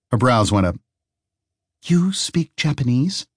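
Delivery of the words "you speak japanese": surprised Harry. Acted.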